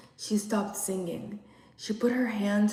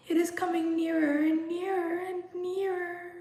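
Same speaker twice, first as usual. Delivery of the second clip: hysterical sobbing; 10 semitones higher than usual. Acted. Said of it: "A hysterical sobbing".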